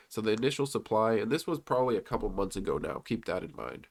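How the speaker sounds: stuffy, congested voice from a cold. Real, not acted. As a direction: speak with a blocked nose. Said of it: "If I sound congested".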